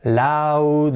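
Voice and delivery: "loud" said like laud, drawn out; common mispronunciation. Shown as a demonstration. Teacher showing learners a common slip, mispronounced. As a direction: mistaken reading of "loud" as laud. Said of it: "muchas veces decimos loud".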